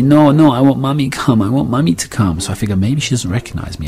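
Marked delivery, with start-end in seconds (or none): 0.0-2.4 high imitated little-girl plea; upset toddler's voice. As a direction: plead like a small child wanting Mummy. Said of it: "I hear her say".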